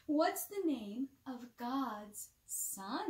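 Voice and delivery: ordinary delivery, nothing marked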